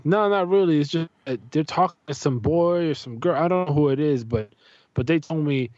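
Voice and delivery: a touch of grievance, imitating his son; mildly upset son. Son explains to dad why he left his sister's room, mildly upset. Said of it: "a little bit annoyed and upset".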